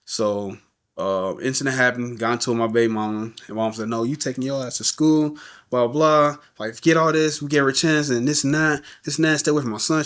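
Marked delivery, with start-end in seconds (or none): 3.9-10.0 raised, scolding mother's rant, a bit higher; mother tells her son to get to school; mom going off. Retold or imitated. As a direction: retell mom chewing him out. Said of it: "She just going off".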